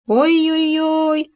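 long, high drawn-out "ой-ой-ой" wail; howling wail. A narrator's reading. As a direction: wail it out in pain, slowly. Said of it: "завопил Хома".

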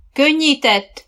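high, loud riding order; shouted command. A narrator's reading. Coach to riders on the track, shouted command. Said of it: "kiáltotta Dóra".

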